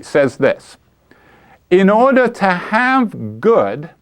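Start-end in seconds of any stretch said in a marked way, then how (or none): 1.7-3.9 slow, higher-pitched proclamation with a long central pause; solemn pronouncement. Acted. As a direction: proclaim it slowly like a grand maxim. Lecturer proclaims a quoted doctrine.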